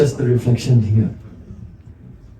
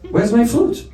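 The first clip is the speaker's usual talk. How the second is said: surprised search; 6 semitones higher than usual. Acted. Krishna searching for lost flute.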